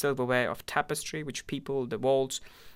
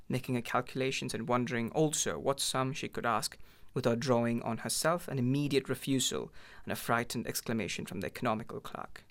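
ordinary delivery, nothing marked

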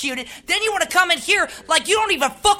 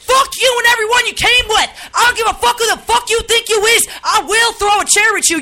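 host yelling threats at a guest, furious; furious shout; 4 semitones higher than usual. Acted. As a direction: scream it in their face. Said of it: "This is a real live snap".

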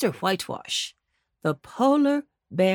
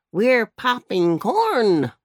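barking puppy; 3 dB louder, much slower than usual. Acted. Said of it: "barked Jackie".

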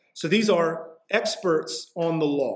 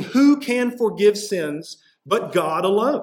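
higher, rising, outraged scribe; scandalized question; 3 semitones higher than usual. Retold or imitated. Scribes protesting to Jesus, scandalized rising question. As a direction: ask it as an offended scribe.

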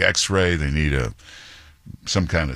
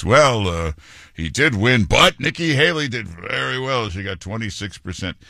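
higher-pitched mocking imitation of a TV anchor; mock news anchor; 4 semitones higher than usual. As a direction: play up a slanted newscaster's spin, pitch lifted. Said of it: "M S N B C or David Muir or any of these".

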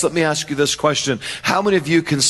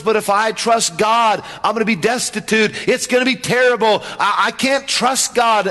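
worried voice; 4 semitones higher than usual. Retold or imitated. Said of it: "Someone says".

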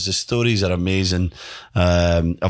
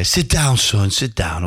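lightly imitated gaffer's accent, higher on the first words; a hint of the old gaffer's accent; Sir Bobby; 3 semitones higher, slower than usual. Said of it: "I'll do his accent".

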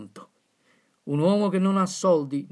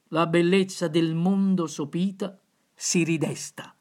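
poem recitation. Acted. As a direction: declaim the verses with fervour. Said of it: "le laudi di D'Annunzio".

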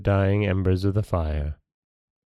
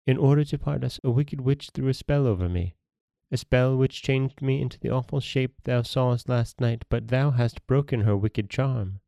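higher, gentle maiden's telling; a young maiden explains the spell; lightly voiced maiden; 5 semitones higher than usual.

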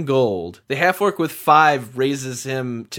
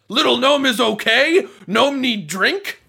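simple golem voice; 9 semitones higher than usual. Acted. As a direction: talk like a big dumb construct, carefully.

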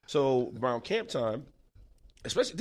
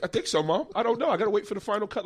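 sheepish reply to mom; 8 semitones higher than usual. Retold or imitated. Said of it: "I was like".

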